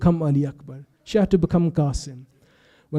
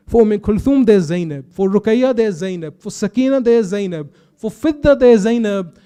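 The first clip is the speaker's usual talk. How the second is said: each name pitched higher, climbing toward the last; building refrain; 3 semitones higher than usual. Acted. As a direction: let the repeated refrain swell to a peak. Rising list of names, repeated refrain.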